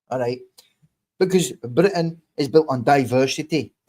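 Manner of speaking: fake Scottish accent. Real, not acted. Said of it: "One, the fake Scottish".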